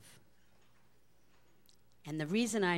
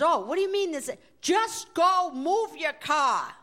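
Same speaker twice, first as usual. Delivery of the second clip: laughing boss; 8 semitones higher, 7 dB louder than usual. Retold or imitated. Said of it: "laughing so hysterically".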